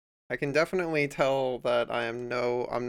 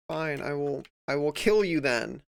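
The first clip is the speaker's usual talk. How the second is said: growing louder mock threat; 6 dB louder than usual. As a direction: threaten the computer, building up. Threatening the program.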